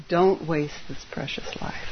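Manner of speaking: soft whispered warning. Shown as a demonstration. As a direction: breathe it out as a secret. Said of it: "I'm gonna say it again".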